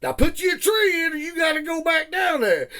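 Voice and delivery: high, loud barked order; retold boss's shout. The boss yelling at the worn-out new planter, in a high, loud shout. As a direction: yell it down the hill at the new boy. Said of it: "he said".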